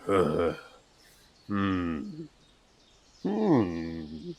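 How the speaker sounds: low pondering hmms, drawn out and soft; thoughtful noises. Acted. A hunter surveying the pantry, low thoughtful hmms. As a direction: hum thoughtfully while looking around. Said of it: "thoughtful noises".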